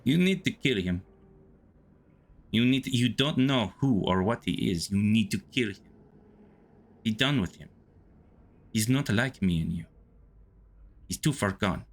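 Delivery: put-on menacing inner voice with a light Russian accent. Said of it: "do the Russian accent".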